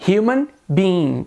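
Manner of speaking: "human being" with an audible breathed H; "human" opening like a Portuguese R; sounded H. Shown as a demonstration. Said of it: "o som do H como função de R".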